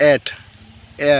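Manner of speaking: এট with an open "æ" vowel; short a sound. Shown as a demonstration. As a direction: say এট like English "at", then এ alone as "æ". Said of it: "এখানে এ উচ্চারিত হয়েছে".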